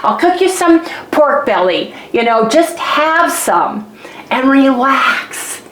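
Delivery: high, quick mock-soothing husband; imitating husband soothing. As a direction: coax her like a doting husband. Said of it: "telling me it's okay".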